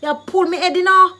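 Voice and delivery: high, loud patois complaint; acted, indignant ouch; pained protest. Shown as a demonstration. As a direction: protest loudly as your hair gets yanked. Acting out having hair pulled.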